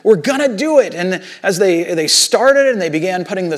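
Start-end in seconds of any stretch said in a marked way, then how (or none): 0.0-0.9 lightly acted excitement, pitch lifted; mildly excited retold quote; excited builders. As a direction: imitate builders cheering themselves on. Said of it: "they must have been excited".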